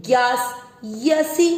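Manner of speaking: यसी with a short final इ, not drawn out; careful teacher demo; short vowel demo. Shown as a demonstration. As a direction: keep यसी short at the end. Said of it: "लंबा नहीं खींचना".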